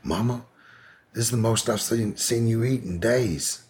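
a hint of a son marveling; imitating her son. Son telling his dying mother she's eating, high voice. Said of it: "her son was like".

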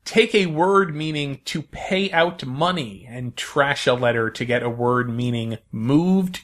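slow, clear quiz reading; quiz host. Acted. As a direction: read the clue like a game host.

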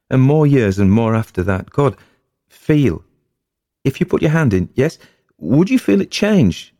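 high, loud, wondering wife; spooked yet thrilled; wife imagining the witch's years, high and loud; rising eerie excitement. Acted.

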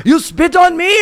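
high-pitched indignant imitation; high, accusing retold question; mock outraged cyclist. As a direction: imitate an affronted man's disbelief. Retold outraged French cyclist in quarrel.

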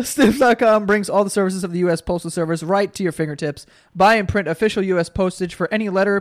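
steady, upbeat sponsor read. Acted. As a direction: sell it like a podcast ad. Reads sponsor ad.

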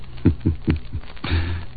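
short breathy mocking chuckle; scoffing laugh. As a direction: laugh off the offer. Holliday mocks the offer.

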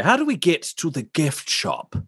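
hushed question; whispering. Acted. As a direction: whisper it conspiratorially. Player asks about gift shop.

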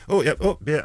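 high, loud sudden yelp of alarm; startled crowd yelp. Retold or imitated. Crowd member spotting the beer, high startled yelp. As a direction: jump out of the way with a high squeal. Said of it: "And someone went".

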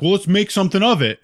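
imitating a guy daring him to fight; mock provocation. Kid challenges to fight.

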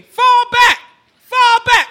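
high, loud panicked yell; friends screaming. Retold or imitated. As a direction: yell it down the slope at her. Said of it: "my friends were screaming".

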